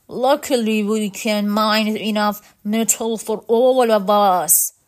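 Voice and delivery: lightly voiced robot alien; robot guide. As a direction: explain in a lightly mechanical voice. Robot guide continues explaining.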